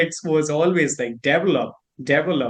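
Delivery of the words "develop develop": "develop" as "DEV-lup"; Indian pronunciation. Shown as a demonstration. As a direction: hit the first syllable of "develop". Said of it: "I think in India".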